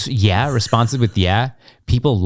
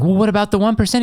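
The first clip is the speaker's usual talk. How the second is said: mock questioner voice; 10 semitones higher, faster than usual. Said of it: "someone was like".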